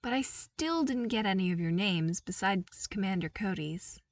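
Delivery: put-on lighter, upbeat young voice; bright eager invitation; cheerful Luke. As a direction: friendly call to the troopers.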